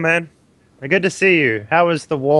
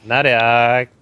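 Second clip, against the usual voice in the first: put-on Valley Girl accent. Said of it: "I heard the Valley Girl accent from Khaleesi".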